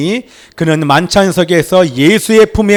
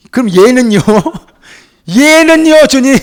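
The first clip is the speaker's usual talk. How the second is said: Peter's question; 7 semitones higher, 4 dB louder than usual. Acted. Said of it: "이게 베드로예요".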